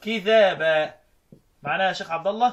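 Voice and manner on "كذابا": كذابا as kidhaba, one dhal; no doubling in كذابا; lightened consonant. Shown as a demonstration. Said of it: "قرأ الكسائي بالتخفيف".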